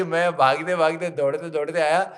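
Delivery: loud, exasperated complaint; angrier king. Retold or imitated. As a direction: protest like a fed-up king. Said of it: "तो उनको और गुस्सा चढ़ा".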